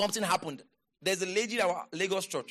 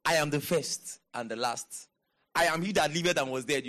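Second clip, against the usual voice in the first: lightly voiced stranger, pitched low; man on the road; 4 semitones lower than usual. Preacher imagines a man on the road talking, low understated voice. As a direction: say it low and matter-of-fact, as a passer-by might. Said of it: "imagine you meet a man on the road".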